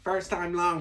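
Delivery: terrible put-on New York accent. After praising new york sports talk radio, a terrible new york accent. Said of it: "that was a terrible New York accent".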